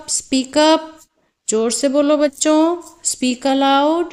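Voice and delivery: teacher calling on pupils to speak up; urging pupils. Shown as a demonstration. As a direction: prompt the class in short, lifted calls. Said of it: "like this". (बच्चों को बोलने के लिए उकसाते हुए)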